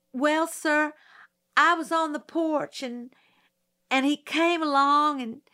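put-on high, tense country girl testifying; nervous country girl. Mayella testifying to the prosecutor, high and nervous.

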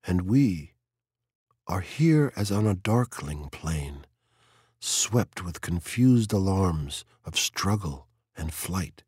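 slow, measured poem recital; poetry reading. Acted. Montag reading a poem to three women, measured recital. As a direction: read it out slowly, with pauses between phrases.

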